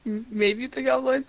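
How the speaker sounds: words broken by hiccups; hiccuping mid-sentence. Real, not acted. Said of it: "Sorry, I'm hiccuping".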